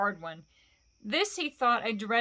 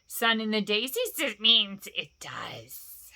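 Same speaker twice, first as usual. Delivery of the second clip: very slow, drawn out creature voice; slipping toward Yoda; mild Yoda-like Gollum; 4 dB louder, slower than usual. Acted. Gollum answers Bilbo, slow creature voice slipping. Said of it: "It sounded like Yoda".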